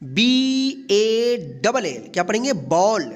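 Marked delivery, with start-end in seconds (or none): 0.0-2.1 letters spelled out slowly one by one; drawn-out letter-by-letter spelling. Shown as a demonstration. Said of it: "उस ए का औ उच्चारण होगा".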